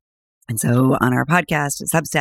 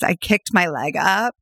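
laughing; 4 semitones higher than usual. Real, not acted.

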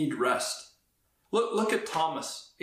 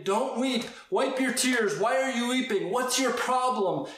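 higher, brushing off the tears; mock dismissive; 4 semitones higher than usual. Preacher voicing a dismissive Jesus, brushing off the tears. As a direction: pretend Jesus scolding the weeping. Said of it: "he doesn't say".

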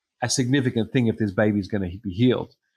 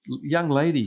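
higher-pitched, mildly flustered call; flustered appeal; 5 semitones higher than usual. Retold or imitated. Preacher to a screaming teenager in his meeting, acted flustered appeal. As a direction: appeal to someone causing a disruption.

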